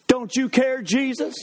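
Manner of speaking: a touch of a pushy high plea; mock Martha getting in his face; indignant Martha. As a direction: Martha scolding Jesus, mildly hammed. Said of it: "she gets all up in his face".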